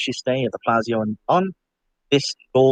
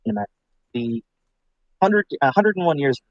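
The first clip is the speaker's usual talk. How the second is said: breaking up over a bad mic; choppy, dropping audio; bad connection; 3 semitones higher than usual. Real, not acted. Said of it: "Yeah, you're breaking up very badly".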